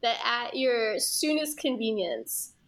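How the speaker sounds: formal, pointed corporate demand; politely impatient. Pretend. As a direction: stiff HR memo voice, trailing low. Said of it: "in such a corporate, like, H R fucking way".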